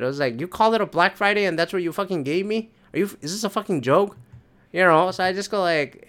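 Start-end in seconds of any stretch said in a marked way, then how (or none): 0.4-4.2 ticked off. Retold or imitated. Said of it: "ticked off a little bit".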